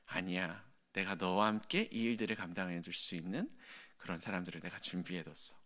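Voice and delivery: soft, reassuring, fatherly; calm the weary servant softly; God gently reassuring tired Elijah, soft and warm; gentle reassurance. Acted. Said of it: "굉장히 부드럽게".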